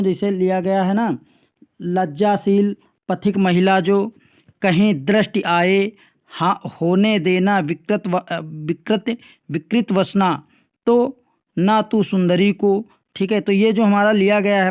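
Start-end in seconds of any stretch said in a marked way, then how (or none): 1.8-12.8 slow, measured verse reading; poem recitation. Acted. Teacher reads the second verse passage to pupils, slow poem recitation. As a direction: read the verse slowly, phrase by phrase.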